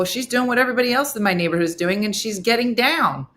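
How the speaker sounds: mildly exasperated acted reply; exasperated retort.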